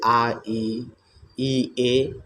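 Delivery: आ ई ए held long with spread lips; vowel demo. Shown as a demonstration. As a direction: sound out आ ई ए slowly. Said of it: "आवृत्तमुखी स्वर कहते हैं". (आ ई ए धीरे और लंबा बोलना)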